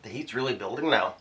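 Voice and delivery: slurping while talking; slurping noodles. Real, not acted. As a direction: talk through a slurp of noodles. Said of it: "Sorry about the slurping sound".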